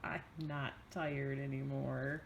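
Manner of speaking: mock whiny child voice; imitating child. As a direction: lightly mimic a whining six-year-old. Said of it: "Do you get".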